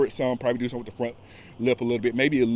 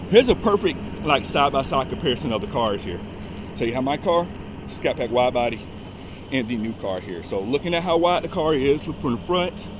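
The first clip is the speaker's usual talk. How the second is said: out of breath. Real, not acted. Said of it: "I'm sorry, I'm out of breath".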